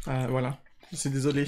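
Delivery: eating while talking; mouth full. Real, not acted. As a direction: talk through a mouthful. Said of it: "j'ai pas fini de manger".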